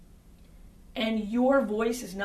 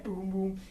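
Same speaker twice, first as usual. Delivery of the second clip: booming imitation; 3 semitones lower, 4 dB quieter than usual. Shown as a demonstration. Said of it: "bassy, booming".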